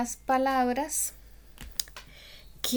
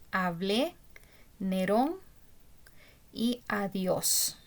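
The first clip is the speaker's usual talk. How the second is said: "Hablé", "Nerón", "adiós", each stressed on its final syllable; stress on last syllables; slower than usual. Shown as a demonstration. Teacher lists accented acute words, stressing each final syllable of "Hablé", "Nerón", "adiós". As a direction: separate examples, leaning on "blé", "rón", "diós". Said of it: "aquí tenemos un ejemplo".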